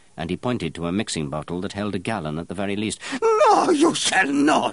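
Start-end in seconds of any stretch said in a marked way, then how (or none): 3.2-4.8 very loud, shrill, very high, drawn-out horrified scream. Offered a gallon of the perfume, he screams in horror. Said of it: "screamed Baldini in horror".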